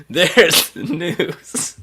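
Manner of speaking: slow drawn-out catchphrase, laughing; eighties catchphrase. Retold or imitated. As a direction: savor each word slowly. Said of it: "good bad eighties catchphrase".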